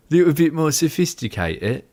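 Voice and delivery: playfully hammed-up British accent; bad British accent. Shown as a demonstration. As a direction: mimic a British accent badly. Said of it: "That's the worst British accent".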